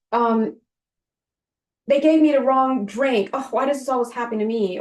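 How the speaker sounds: sighing, put-upon complaining, a bit fast; hammed-up poor-me grumble; mock victim whine. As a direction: play the self-pitying sufferer lightly. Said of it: "victim consciousness, like".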